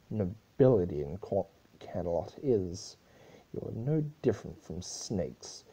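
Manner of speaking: lightly voiced angry Celestia; growling princess. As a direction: spit the words at the corrupt nobles. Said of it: "Celestia growled".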